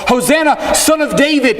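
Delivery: high, loud joyful shout; crying out loud. Retold or imitated. Jairus hails Jesus amid the crowd, a high joyful shout. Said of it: "crying out just as loud as everybody else".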